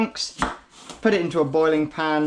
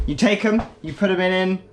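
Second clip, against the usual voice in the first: mock chef demo; 5 semitones higher, 4 dB louder than usual. Real, not acted. Chef-style demo, louder.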